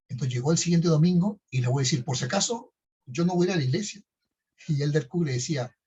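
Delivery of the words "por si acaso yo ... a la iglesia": higher, defiant refusal; defiant teen. Retold or imitated. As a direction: throw it out like a stubborn teenager. Son defiantly refuses church.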